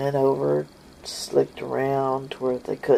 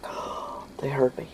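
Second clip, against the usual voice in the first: panicked whisper; 7 dB quieter than usual. Retold or imitated.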